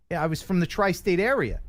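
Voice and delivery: lightly put-on Philly accent; a touch of Philadelphia. Shown as a demonstration. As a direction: talk like a tri-state native. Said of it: "I had a Philadelphia accent".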